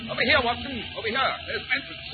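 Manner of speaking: high, loud call across. Acted. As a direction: call him over in the storm. Calling through the storm.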